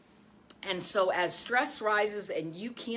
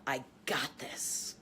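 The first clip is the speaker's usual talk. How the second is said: soft inner voice; 7 semitones lower, 7 dB quieter, slower than usual. Shown as a demonstration. Coach modelling a quiet self-assurance. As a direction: lower and softer, slow. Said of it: "say to yourself".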